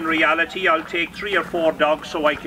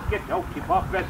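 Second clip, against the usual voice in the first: herding shout; 7 semitones higher than usual. Real, not acted. Commanding dog away.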